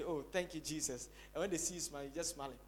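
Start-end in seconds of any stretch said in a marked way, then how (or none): 0.0-1.1 soft, low, understated gratitude; mock muted praise, dropping away; half-hearted thanks. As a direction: toss off a token thank-you. Imitates underwhelmed thanks after breakthrough.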